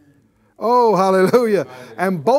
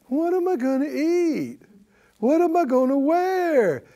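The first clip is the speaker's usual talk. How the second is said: higher, fretful whine of worry; mock worried whine; 5 semitones higher than usual. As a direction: play the anxious believer, a bit whiny. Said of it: "you don't say".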